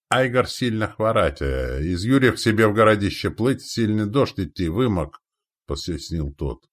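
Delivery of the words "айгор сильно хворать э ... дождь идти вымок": slightly raised, halting explanation; lightly voiced foreign warrior. Ally explaining a sick leader, lightly voiced foreigner. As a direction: explain in broken Russian.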